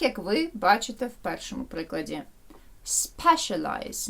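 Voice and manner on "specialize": Specialize said slowly, stressed on SPE; stress on first syllable. Shown as a demonstration. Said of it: "Наголос падає на спе".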